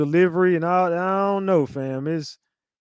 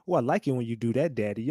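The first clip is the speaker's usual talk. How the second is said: soft, low mock moan to daddy; hammed-up soft moan; breathy mock moan; 6 semitones lower, 6 dB quieter than usual. Mock moaning quote.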